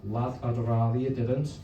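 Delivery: slow, put-on Scouse reply; code-switch into a Liverpool accent, slowly. Student answering the drug dealer, imitated Liverpool accent. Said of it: "I code switch sometimes".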